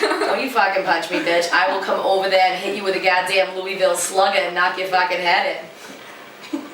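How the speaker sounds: threatening, slurred Boston tough talk; angry Boston accent. Acted. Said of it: "it's just an angry accent".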